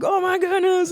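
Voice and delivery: high-pitched mock panic; imitated freak-out. Schoolkids seeing a broken arm, freaking out. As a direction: squeal it like kids losing it. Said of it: "freaking out".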